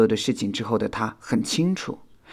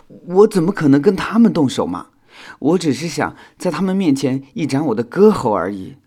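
loud, higher-pitched wounded protest; very aggrieved; 4 semitones higher, 7 dB louder than usual. A narrator's reading. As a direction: protest like someone badly wronged. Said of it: "修想委屈极了". (委屈极了地辩解)

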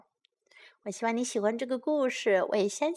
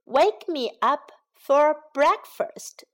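slow, drawn out; 4 semitones higher, 3 dB louder, slower than usual. Shown as a demonstration. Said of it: "叫醒我吃早餐".

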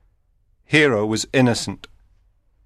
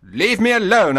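angry; 11 semitones higher, 4 dB louder than usual. A narrator's reading. Antonio angrily refusing his brother.

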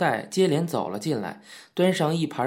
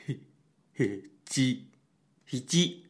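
chuckling reply; 5 dB quieter, slower than usual. A narrator's reading. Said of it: "笑嘻嘻地说".

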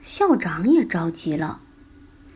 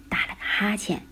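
yawning; 6 dB quieter than usual. A narrator's reading. Principal yawning.

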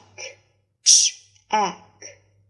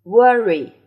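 loud model; 2 semitones higher, 8 dB louder than usual. Shown as a demonstration. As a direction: worry said out loud and firm. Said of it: "teacher models loudly". (大声示范 worry)

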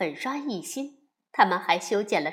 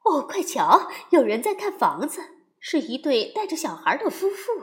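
louder, calling out to the family; sudden loud call; 3 semitones higher, 4 dB louder than usual. Acted. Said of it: "熊妈妈忽然大声说".

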